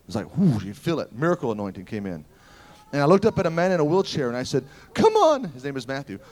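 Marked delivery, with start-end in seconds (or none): 4.9-5.4 shouted high, pleading him up; a fervent loud shout; urgent call. Retold or imitated. Preacher calling to wheelchair man.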